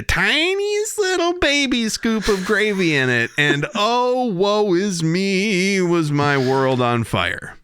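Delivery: hammed-up woe, drawn out high; mock tragic lament. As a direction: whine it like a melodrama heroine. Dramatic lament over tiny gravy.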